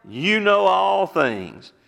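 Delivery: high, slow, drawn-out plea; a hint of a grieving Peter; Peter's anguished answer. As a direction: let it ache out of him. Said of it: "And what did Peter say".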